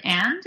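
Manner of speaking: "and" said as a question. Shown as a demonstration. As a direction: toss back "and" as a one-word question. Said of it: "as a question".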